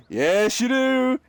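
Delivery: mock emphatic yes, climbing high; emphatic agreement. Answering a manager who looked like a jackass, gleeful agreement. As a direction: imitate someone gleefully agreeing, pitch rising.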